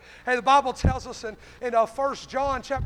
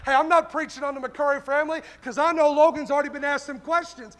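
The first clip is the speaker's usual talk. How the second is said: forceful, driving sermon delivery; fervent preaching; 3 semitones higher, 5 dB louder than usual. Real, not acted. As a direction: press the congregation with punched questions. Preaches to congregation.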